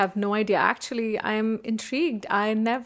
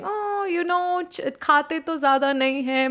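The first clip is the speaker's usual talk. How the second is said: lightly voiced aunt; 5 semitones higher than usual. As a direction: lightly imitate a remarking aunt. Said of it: "when the bua was telling".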